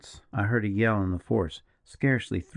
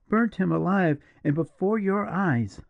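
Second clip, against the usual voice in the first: appalled; 9 semitones higher than usual. A narrator's reading. Julia pressing the partisan, high and appalled. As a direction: dwell on each word in disbelief.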